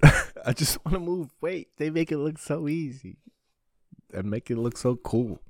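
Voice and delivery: giddy dreamy excitement. Real, not acted.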